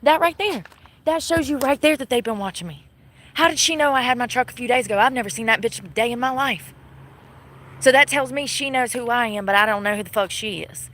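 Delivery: rising indignant tirade; real angry venting at the cops; angry rant. Real, not acted. Ranting about the officer.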